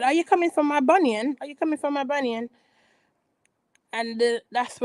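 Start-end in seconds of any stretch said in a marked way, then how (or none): 0.0-1.3 mock-indignant question rising at the end, a bit higher; mock Ashley retort. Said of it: "Ashley said". 1.4-2.5 rattled off fast and falling; quick mock Ashley repeat. Ashley repeating her jab, fast and dropping. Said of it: "Ashley said".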